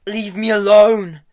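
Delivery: high, loud angry snap; snapped. A narrator's reading. Hester snapping at Tom to leave her alone. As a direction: bite his head off. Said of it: "she snapped".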